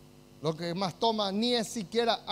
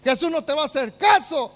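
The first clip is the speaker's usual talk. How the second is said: a hint of a taunting devil, louder on the first lines; devil's lies; 3 semitones higher, 5 dB louder than usual. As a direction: sneer the devil's lies at the listener. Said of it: "esas mentiras diabólicas".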